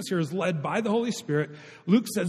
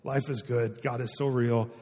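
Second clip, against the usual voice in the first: lower, much softer blissful murmur; 7 semitones lower, 7 dB quieter than usual. Retold or imitated. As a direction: imitate someone lost in contentment, hushed. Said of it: "it's just like".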